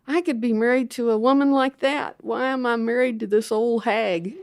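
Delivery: half-mocking husband wistfully comparing; imagined husband ogling. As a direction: lightly voice him dreaming of the young attendant. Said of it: "he would look at her and say".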